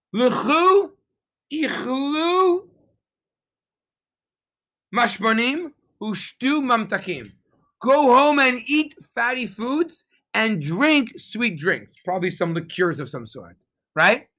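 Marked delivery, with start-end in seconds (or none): 0.1-11.9 high, drawn-out command with little added volume; mock scream. Nehemiah calling to the weeping people, mock scream. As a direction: call it out high and slow, a mild retold scream. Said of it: "He screams at them".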